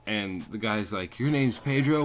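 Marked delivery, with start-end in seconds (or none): 1.2-2.0 loud, high mocking question; mock-incredulous and louder; hostile taunt. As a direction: imitate the belligerent homeowner, raised voice. Retelling homeowner's hostile taunt.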